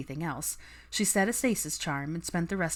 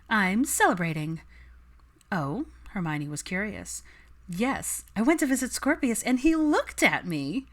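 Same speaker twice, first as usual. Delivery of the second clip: higher, brighter excited announcement; excited news; 4 semitones higher than usual. Acted. Daphne telling her friends her happy news, excited. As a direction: gush the good news.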